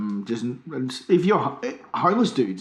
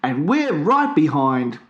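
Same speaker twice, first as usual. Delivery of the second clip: ad read; slower than usual. Pretend. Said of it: "the one where you say".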